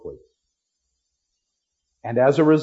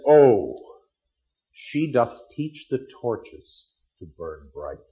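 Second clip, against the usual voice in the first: Romeo's enraptured line; 4 semitones lower, slower than usual. Acted. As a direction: read it like a smitten young man, slowly. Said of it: "He sees her and says".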